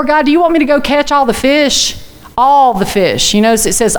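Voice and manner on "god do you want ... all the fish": higher pitched, rising disbelief; incredulous Moses. Retold or imitated. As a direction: ask God if he's serious.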